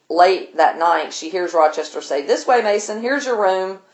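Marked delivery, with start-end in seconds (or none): 2.2-3.8 lightly cheerful, higher-pitched retold call; imitated cheerfulness. Rochester showing Mason his room, cheerful. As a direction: mimic a host breezily showing a guest along. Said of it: "he sounds really cheerful".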